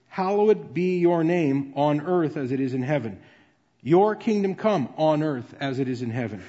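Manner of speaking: each petition landed, then the refrain "on earth as it is in heaven"; refrain phrasing. Shown as a demonstration. Preacher demonstrating to the church how the prayer was first prayed, with measured refrain phrasing. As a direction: pray it line by line, the refrain closing each petition. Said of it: "it could be prayed like this".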